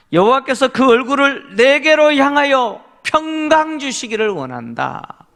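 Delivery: ordinary talk, nothing marked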